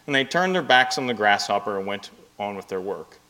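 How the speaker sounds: fable read aloud with lively character voices; story narration. Acted. Pastor reading fable to congregation, story narration.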